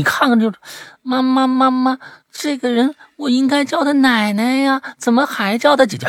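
put-on high puzzled little kid; child voice. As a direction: ask like a confused child. Acting a child asking mom. (孩子气的疑问)

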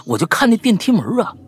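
normal talking voice

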